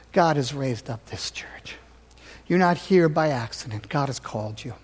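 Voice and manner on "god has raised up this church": slow, unvoiced whisper; whispered appeal. Pastor to church, softly whispering God raised it up. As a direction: hush it like a secret blessing.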